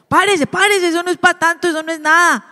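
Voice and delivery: a dismissive parent's quick get up; impatient parent. Retold or imitated. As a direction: brush the tears off briskly. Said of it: "lo que sigue".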